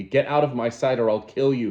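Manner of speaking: threat. Acted. Savage threatening Lenina.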